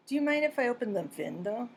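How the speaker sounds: "window" said as "vindow", W turned to V; mispronounced window. Shown as a demonstration. Non-native speaker asking to open the "vindow". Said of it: "mispronounced the word window".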